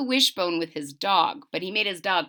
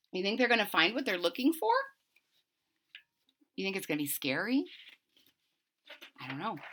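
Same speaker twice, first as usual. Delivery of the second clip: hushed suspense; 2 semitones lower, 8 dB quieter, much faster than usual. A narrator's reading. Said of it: "hushed suspense to audience".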